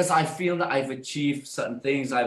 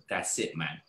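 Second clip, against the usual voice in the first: low soft muttered decision; quiet resolve; 7 semitones lower, 6 dB quieter than usual. Retold or imitated. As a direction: say it under breath, decided. Inner resolution retold.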